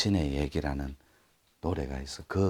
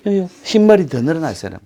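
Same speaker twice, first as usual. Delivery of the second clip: fast, high, loud mocking singsong; childish teasing; 9 semitones higher, 9 dB louder, faster than usual. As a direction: taunt him like a cheeky kid. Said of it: "유치한 멘트". (빠르고 높게 놀리는 말투)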